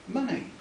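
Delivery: "money" stretched long in an aristocratic drawl; drawn-out posh money. Shown as a demonstration. Reader demonstrating the gentleman's posh "money", drawn out. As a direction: pull "money" out slowly, upper-class vowels. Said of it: "drawn out to about ten times its normal length".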